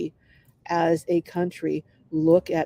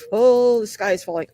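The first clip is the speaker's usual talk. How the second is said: panicky voice; 3 semitones higher, 6 dB louder than usual. Retold or imitated. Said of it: "a panicker".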